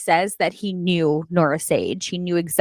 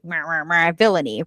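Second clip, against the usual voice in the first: mocking meh; 5 semitones lower than usual. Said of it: "smart alecky".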